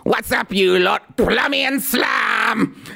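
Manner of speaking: a hammed-up Brummie accent caricature; mock Brummie accent. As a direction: parody her with an over-the-top Brummie accent. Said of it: "she has this Brummie accent".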